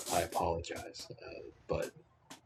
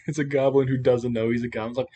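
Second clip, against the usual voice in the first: laughing; 4 dB louder than usual. Real, not acted. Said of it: "laughing while describing".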